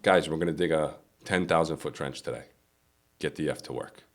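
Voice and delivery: curt boss barking orders at the crew; just tell them flat out, no reasons; a foreman's plain, curt command; blunt order. Shown as a demonstration. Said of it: "it's how it's being delivered".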